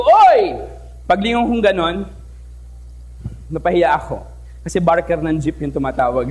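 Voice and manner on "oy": loud high answering shout; calling back. Retold or imitated. Turning when someone calls your name, a loud answer. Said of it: "Sabi ko".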